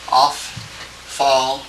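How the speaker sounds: "Ophthalmos" slow and split into syllables; slow classroom dictation of "Ophthalmos"; sounded out slowly. Shown as a demonstration. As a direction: spell out "Ophthalmos" by sound, part by part. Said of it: "Let me just try to help you".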